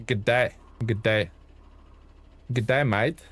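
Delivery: rough stab at an Aussie greeting; amateur Australian twang on the vowels; attempted Australian accent. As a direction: try out a light Australian accent. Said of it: "I can't do Australian accent".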